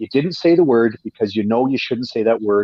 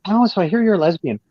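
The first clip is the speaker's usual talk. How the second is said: lightly voiced nosy coworker, pitched up at the start; a hint of a curious coworker's higher voice; 4 semitones higher than usual. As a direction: imitate a prying office colleague, lilting up on the question. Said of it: "Janice from accounting will come up and say".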